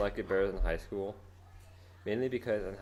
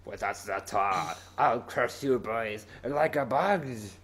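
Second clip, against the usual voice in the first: mock villain threat; much slower than usual.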